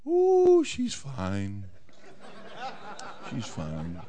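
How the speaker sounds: high ooh then laughing through it; nervous laugh. Acted. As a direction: laugh it off awkwardly. Herod evades question about wife.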